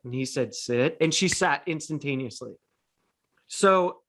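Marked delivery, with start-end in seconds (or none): 0.5-1.0 low, calm retold sit command; calm request. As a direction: ask the dog kindly, pitched low. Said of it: "Now ask your dog nicely for a sit".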